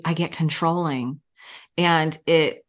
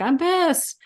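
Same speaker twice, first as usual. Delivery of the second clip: retold anger; 12 semitones higher than usual. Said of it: "And I'm like".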